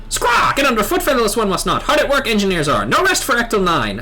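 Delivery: lightly voiced squawking bird-man; a hint of a proud little bird creature; Ixal bird voice. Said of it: "do all the Ixal voices like this".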